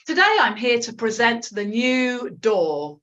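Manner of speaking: slow, deliberate model sentence; mirroring model. Shown as a demonstration. Teacher gives a sentence to mirror, slow clear demonstration. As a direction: say it slowly for students to copy. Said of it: "I'm going to say something like".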